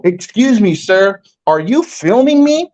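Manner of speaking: a hint of a prim girl pressing him; insistent girl. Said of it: "and go".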